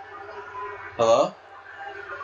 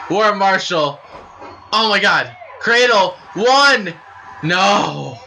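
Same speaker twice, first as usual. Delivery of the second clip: louder, higher rapid calls; excited call; 4 semitones higher, 6 dB louder than usual. Real, not acted. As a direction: call the cradle count breathlessly. Calling a cradle near-fall.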